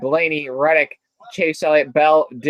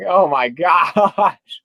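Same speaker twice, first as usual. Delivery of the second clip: slow oh my gosh broken by a laugh; slow amused oh my gosh with a laugh; laughing disbelief; much slower than usual. Retold or imitated. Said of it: "I'm like".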